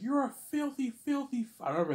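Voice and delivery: high, loud insult; imitated screaming teacher; mock teacher yelling. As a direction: hurl it like the raging teacher. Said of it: "she's like".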